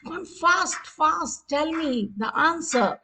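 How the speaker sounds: insistent countdown hurry-up; urging on. Pretend. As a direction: hurry the players for an answer. Quiz timer running, demanding an answer.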